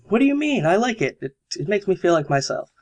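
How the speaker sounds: defensive friend. Acted. Friend defends outfit in quarrel.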